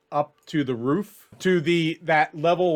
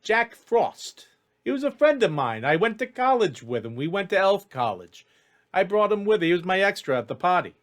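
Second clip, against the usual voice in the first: higher-pitched elf giving up a friend; confiding elf schemer; 5 semitones higher than usual. Acted. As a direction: spill the name in a chummy, high voice. GM voices tall elf Ellis.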